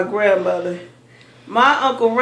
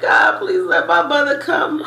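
pleading, rising higher to the last please; crying prayer; 5 semitones higher than usual. Retold or imitated. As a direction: beg God like a scared little girl. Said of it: "And I was praying and crying like".

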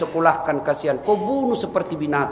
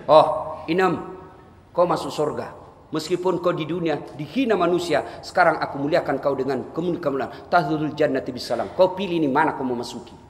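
gracious welcome. Acted. Heavenly judge welcomes maid to paradise.

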